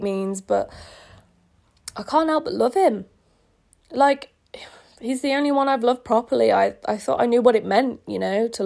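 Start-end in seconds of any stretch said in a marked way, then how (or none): 2.0-6.5 whisper. Acted. Tearful confession to friend.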